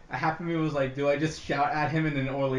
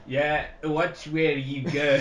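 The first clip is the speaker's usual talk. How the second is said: bad Scottish accent; slower than usual. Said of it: "a French person trying to do a Scottish accent".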